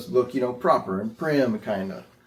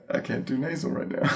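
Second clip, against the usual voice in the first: laughing; 2 semitones higher, 6 dB quieter than usual. Real, not acted. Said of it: "You can't do nasal when you're smiling".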